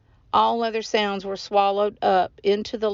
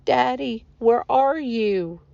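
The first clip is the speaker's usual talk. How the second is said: raised, drawn-out call for a missing father; calling out searchingly; 4 semitones higher, slower than usual. A narrator's reading. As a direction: call into the storm, stretching the words. Boy searching for father in storm.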